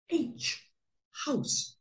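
breathy hush for the haunted house; hushed, spooky reading aloud; spooky whisper. Acted. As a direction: whisper it to sound creepy.

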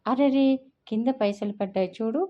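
put-on a quick high "అరెరే!" to a toddler; mock surprised cry. Elder cooing at toddler, mock alarm. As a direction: exclaim to distract a fallen baby. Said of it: "అంటూ".

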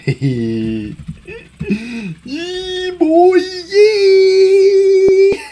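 high, loud victory whoop. Real, not acted. Gamer escaping the worms, loud high victory whoop. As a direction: yell it out in triumph.

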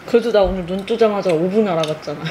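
speaking through hands; muffled behind palms; face in hands. Real, not acted. Seen 2: Hands cover face, head bowed from 0.6s; chewing not visible.

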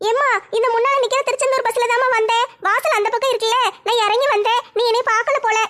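put-on young daughter voice. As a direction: play the eager young girl meeting her mom.

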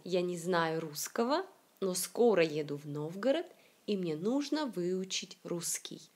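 teacher's demonstration, "нужно" and "русский" accented at the start; first-syllable stress. Shown as a demonstration. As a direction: model reading with "знаю", "русского", "скоро" stressed on the first syllable. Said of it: "L'accent est toujours sur la première syllabe ici".

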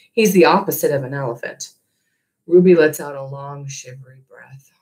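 steady storytelling read to a class; story narration. A narrator's reading. Teacher reading the novel aloud to her class, gentle storytelling. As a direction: read it like a chapter to students.

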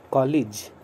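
कॉलेज said as kɔlij, with an ई sound after ल; कॉलेज with a clear ee after the L; correct pronunciation. Shown as a demonstration. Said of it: "इसका शुद्ध pronunciation है". (कॉलेज का शुद्ध उच्चारण, ल के बाद ई)

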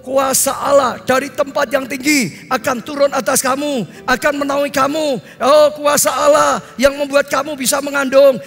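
slow, drawn-out ringing proclamation; forceful, stretched sermon cadence; proclamatory preaching. Real, not acted. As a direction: declaim scripture to the congregation. Proclaims the angel's answer in sermon.

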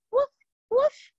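tiny high woof woof like a small puppy; little bark. Pretend. Teacher asks kids for a little bark, tiny high yip. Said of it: "little bark this time".

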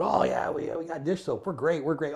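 high, sing-song mock of self-satisfied crews; mocking smugness. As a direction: parody their back-patting. Mocking complacent departments.

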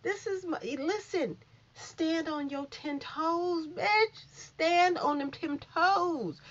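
lightly voiced sassy host; imitating Tasha K. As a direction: drawl it out like a gossip host hyping her fans. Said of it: "she talked like this".

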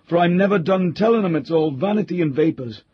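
put-on a touch of a grumbling old country butler; old butler Cooper. A narrator's reading. Old butler Cooper grumbling to the squire, lightly voiced.

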